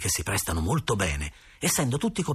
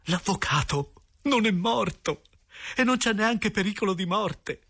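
pazzo di allegria; 10 semitones higher than usual. A narrator's reading. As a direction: announce the good news with giddy relief. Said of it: "come un pazzo dall'allegria". (euforico, pazzo dalla gioia)

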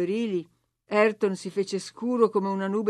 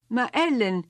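sbalordita; 4 semitones higher, slower than usual. Acted. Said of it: "esclamò lei con uno sguardo sbalordito".

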